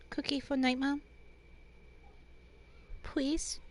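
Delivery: put-on soft, cutesy baby talk; cuteness overload voice. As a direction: beg softly in simple baby talk. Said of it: "mix up the cuteness overload voice".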